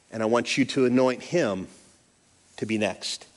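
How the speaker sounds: lightly voiced, tender God; gentle. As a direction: tell him kindly, without blame. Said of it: "God lightly and gently tells him".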